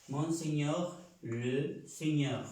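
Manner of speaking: slow "Mon Señor, le Señor" with French mon and le. Shown as a demonstration. Teacher drilling "Mon Señor, le Señor" slowly. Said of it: "Masculino para el mí".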